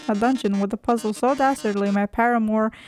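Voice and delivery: lightly voiced melodramatic lament; mock-tragic villain. Villain pretends to mourn the lover in the dungeon, lightly theatrical. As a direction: feign despair in stagey style.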